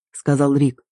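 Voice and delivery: ordinary delivery, nothing marked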